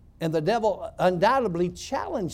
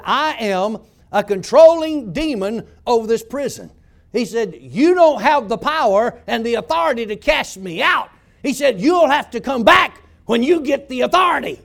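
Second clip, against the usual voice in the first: gruff demon voice; 2 semitones higher, 7 dB louder than usual. Retold or imitated. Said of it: "this gruff voice come out of this man".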